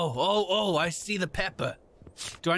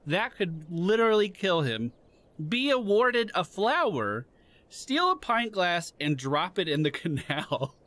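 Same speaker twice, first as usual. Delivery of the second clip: mock briefing. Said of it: "this just in from the higher-ups".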